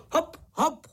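bouncy high hop hop in rhythm; rhythmic hop calls. A narrator's reading. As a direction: call the beat like riding a horse. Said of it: "říkal cvrčičkům do taktu". (rytmické hop hop, výš)

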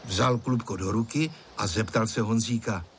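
ordinary delivery, nothing marked

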